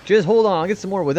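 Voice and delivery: imitating the kid. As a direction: echo the kid's panicked line. Repeats the kid character's lines.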